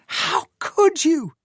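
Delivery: high, slow anguished cry, falling at the end; shouting again. A narrator's reading. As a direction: let the repeat sink down. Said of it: "she shouted".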